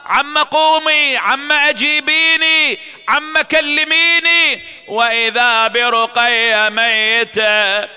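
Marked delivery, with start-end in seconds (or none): 0.1-4.6 higher, pleading lament; urgent grief. Acted. Aunt begging the dead girl to answer, urgent grief. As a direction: plead with her to wake.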